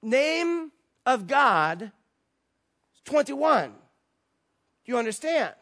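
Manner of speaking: high, loud, slow and halting; imitating a man's intense, deliberate insistence; real serious. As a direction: spell it out gravely as if to someone dense. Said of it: "he gets real serious and he says".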